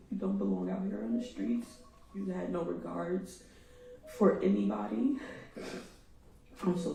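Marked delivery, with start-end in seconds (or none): 0.1-1.7 repeated in a broken, airless whisper; grieving mother, voice gone from crying; choked whisper. Real, not acted. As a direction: barely get it out through tears. Repeats it after apologising, choked.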